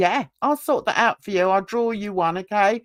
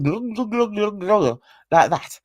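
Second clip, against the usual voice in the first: imitated glugging. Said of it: "It just goes".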